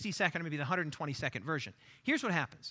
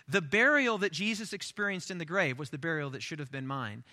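measured, deliberate declaration; unhurried, weighty testimony; solemn declaration; 2 semitones lower than usual. Acted. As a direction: spell out the confession phrase by phrase. Baptismal declaration, first solemn take.

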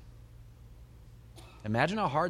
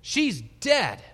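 loud, high scoffing retort; acted jeer, punched high and loud; ridiculing; 9 semitones higher, 7 dB louder than usual. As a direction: throw it back at him in mock disbelief. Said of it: "It says they ridiculed".

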